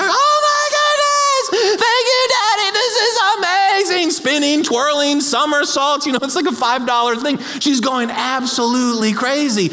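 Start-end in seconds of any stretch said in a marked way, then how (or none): 0.0-4.1 very high drawn-out squeal of delight; squealing little girl. Retold or imitated. Eight-year-old thanking Daddy for presents, squealing. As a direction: imitate a berserk birthday shriek. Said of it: "'cause she goes berserk".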